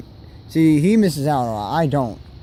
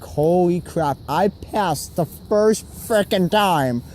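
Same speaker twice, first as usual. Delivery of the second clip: excited disbelief; much slower than usual. Retold or imitated. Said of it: "I'm like".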